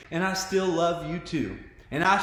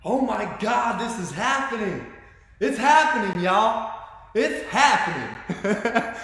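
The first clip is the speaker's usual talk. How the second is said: retold excited scream, more exclaimed than screamed; excited exclaiming; 2 semitones higher, 3 dB louder, slower than usual. Telling viewers about screaming with excitement, excited exclaiming. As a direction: exclaim it with building force and drawn-out final words. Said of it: "I keep screaming with excitement".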